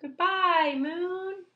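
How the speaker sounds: high, long-drawn farewell shout; shouting loudly. A narrator's reading. Owl bids the moon goodbye, shouting loudly. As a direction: call out to someone very far away. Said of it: "He shouted as loudly as he could".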